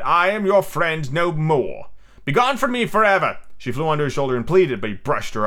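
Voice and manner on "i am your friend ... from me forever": dramatic outcry, drawn out then rising high; crying out. Acted. Peter disowning Tinkerbell as his friend, crying out. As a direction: banish them with theatrical force. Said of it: "he cried".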